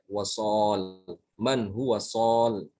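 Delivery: sol with long o, closing on l; slow chant, no i after sol; stopped without ya. Shown as a demonstration. Teacher showing the pause form, ending on l. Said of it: "kita wakaf pada kata ini dibacanya".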